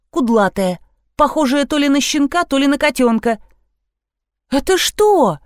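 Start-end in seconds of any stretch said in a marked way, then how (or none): 4.5-5.4 high, stern demand; mildly menacing. A narrator's reading. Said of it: "грозно спросил Костин". (грозно, требовательно)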